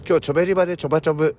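fast, bouncy gyaru chatter; japanese gyaru slang. Retold or imitated. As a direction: rattle it off like a teen gyaru. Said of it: "ギャル語ですよね".

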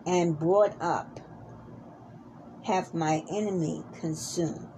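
solemn scripture reading. Acted. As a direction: read it like a preacher at the pulpit. Minister reads scripture aloud.

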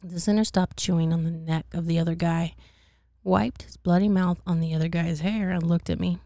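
measured read-aloud narration; storyteller's steady delivery; story narration. A narrator's reading. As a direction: read the tale out clearly to listeners.

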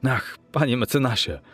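high-pitched, impassioned protest; crying out. A narrator's reading. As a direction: exclaim in anguish, insisting at every phrase. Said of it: "ale Poole krzyknął". (wzburzony okrzyk, wysokim głosem)

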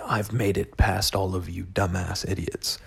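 a put-on self-satisfied preacher, drawn out; smug priest. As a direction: lord it over them like a preening priest. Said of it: "so I can say".

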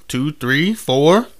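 building count. Real, not acted. Counting up louder.

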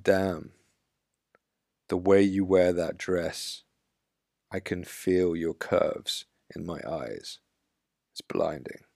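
slow, steady and sure of himself; resolute compliment. Shown as a demonstration. Coach showing a man how to compliment a woman, with resolve. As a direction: say it with rock solid resolve, giving not taking. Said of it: "You see how I said that? I said that with a complete resolve".

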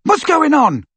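high, loud worried question; shout. A narrator's reading. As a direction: shout it from behind a wall. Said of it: "shouted Ron again".

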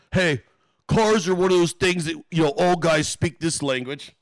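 lightly put-on chummy imitation; lightly mock a would-be pal; mock buddy voice. Brother tries to bond over cars, lightly mocked voice.

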